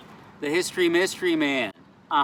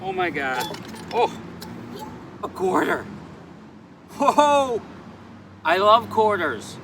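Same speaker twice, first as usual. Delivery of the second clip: delighted surprise; 4 semitones higher than usual. Real, not acted. Gets his first donation.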